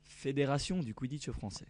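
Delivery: put-on French accent, words said the French way. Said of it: "Your French accent is really good".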